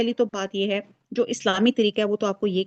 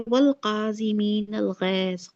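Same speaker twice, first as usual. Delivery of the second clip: slow Quranic recitation; 4 dB quieter, much slower than usual. Shown as a demonstration. Teacher quotes Quran verse.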